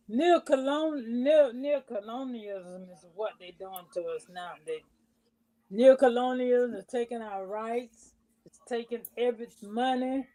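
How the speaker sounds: distant, faint voice; speaking away from the microphone; far from mic. Real, not acted. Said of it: "we could barely hear you".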